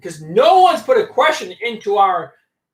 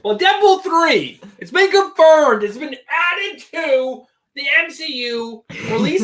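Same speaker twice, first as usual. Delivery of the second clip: hype announcement; 6 semitones higher, 3 dB louder, slower than usual. Acted. Hyping announcement.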